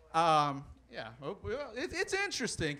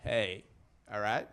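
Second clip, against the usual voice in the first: Stetson-wearing lawman. Acted. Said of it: "He's like".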